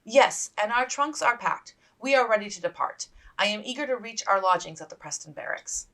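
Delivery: a hint of a proper young lady; lightly voiced Elizabeth. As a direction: answer with composed courtesy.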